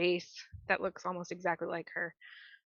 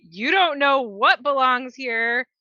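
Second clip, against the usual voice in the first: lightly voiced spirit, rising to a loud challenge; a hint of otherworldly menace, building to an outburst; 4 semitones higher, 7 dB louder than usual. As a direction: draw it out, then burst higher and louder. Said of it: "you hear the otherworldly voice say".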